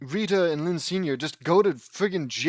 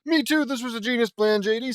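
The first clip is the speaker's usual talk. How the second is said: put-on girlish Lainey voice; 8 semitones higher, 4 dB louder than usual. Lainey's line voiced high.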